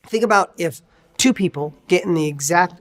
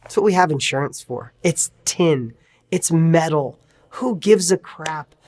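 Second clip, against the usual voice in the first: calm reassurance. Retold or imitated. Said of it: "And the person says".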